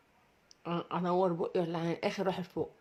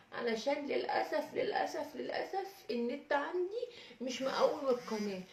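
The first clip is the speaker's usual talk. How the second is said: first take, bright and slowed for the camera; bright retake; 5 semitones higher than usual. Shown as a demonstration. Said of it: "هنقول تاني بقى". (تحية مرحة عالية وبطيئة للمتابعين)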